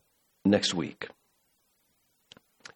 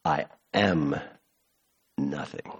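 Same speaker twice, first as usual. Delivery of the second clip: "nothing" dropped low and much softer, almost gone; hushed and low; 8 semitones lower, 7 dB quieter than usual. Shown as a demonstration. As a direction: let "I am nothing" sink into a hush. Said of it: "give me chills".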